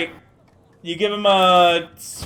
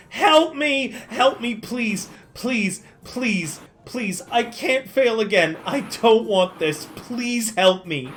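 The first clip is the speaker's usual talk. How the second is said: frantic pleas fading to weak whimpers; desperate begging; 3 semitones higher, slower than usual. Acted. NPC clutching a hero's shin, begging desperately. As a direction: beg for your life, clinging to a leg. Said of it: "and is like".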